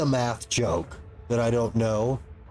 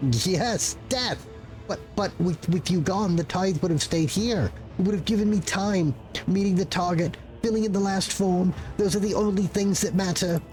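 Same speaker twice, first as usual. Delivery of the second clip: higher, fretful and overworked; pleading clerk voice; 3 semitones higher than usual. Acted. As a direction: beg for understanding, flustered. Clerk justifies himself.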